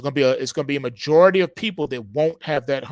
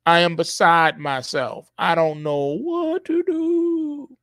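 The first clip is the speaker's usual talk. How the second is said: mock pleading citizen; 3 semitones higher, slower than usual. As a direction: beg the government like a helpless victim. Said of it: "You're gonna say".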